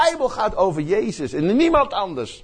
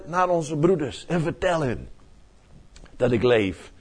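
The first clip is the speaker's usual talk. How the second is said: reassuring Jesus. Retold or imitated. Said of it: "eventjes maar zegt".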